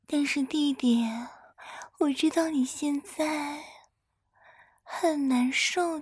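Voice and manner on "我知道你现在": ordinary talk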